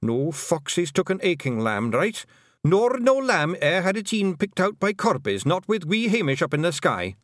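high Scots pleading list; gabbled defence. A narrator's reading. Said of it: "Rob Anybody gabbled".

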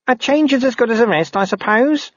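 very high, hesitant voice; high-pitched, unsure junior; tentative constable. Acted. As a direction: offer it timidly as a question. Narrator voices tentative Constable Ping.

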